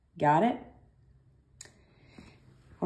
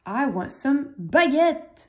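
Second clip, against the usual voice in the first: high pretend student; 9 semitones higher, 5 dB louder, slower than usual. Teacher voicing a student asking for fish, pitched high. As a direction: pretend request, pitched much higher. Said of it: "how to say some".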